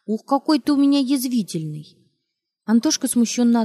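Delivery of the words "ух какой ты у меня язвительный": louder, higher playful teasing; cheerful teasing. Acted. Mother carrying son to kitchen, louder merry teasing. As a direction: tease him merrily as you carry him. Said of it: "весело приговаривая".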